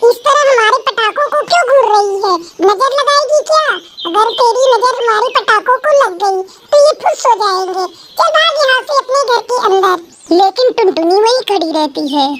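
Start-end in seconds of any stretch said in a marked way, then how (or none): 0.1-10.4 put-on taunting rich girl. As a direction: shoo her away with a sneer. (ऊँची आवाज़ में मज़ाक उड़ाती अमीर लड़की)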